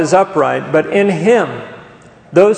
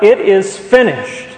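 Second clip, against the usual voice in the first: mild retold yell, higher and drawn out; 4 semitones higher, 3 dB louder, slower than usual. Preacher quoting Jesus's cry from the cross, mild retold yell. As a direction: proclaim it slowly with raised pitch, short of shouting. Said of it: "he yelled out".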